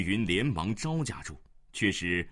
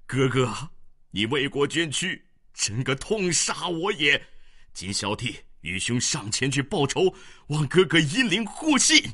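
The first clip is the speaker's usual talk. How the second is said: louder, higher anguished wail; grieving lament; 6 semitones higher, 7 dB louder than usual. A narrator's reading. Sworn brother lamenting at the body, grief-stricken wail. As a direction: cry out over a fallen brother. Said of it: "哭一声".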